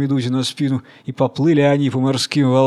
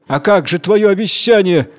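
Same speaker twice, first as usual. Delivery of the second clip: vexed reproach; 5 semitones higher, 4 dB louder than usual. Acted. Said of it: "чуть не лопается от досады".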